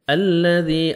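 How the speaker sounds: الَّذِي with the lam doubled; slow tajweed drill. Shown as a demonstration. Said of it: "الف لام سے پہلے زبر آئے گا".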